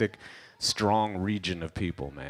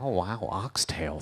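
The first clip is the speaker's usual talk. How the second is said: wowed Canadian diner; slower than usual. Acted. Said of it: "They're like".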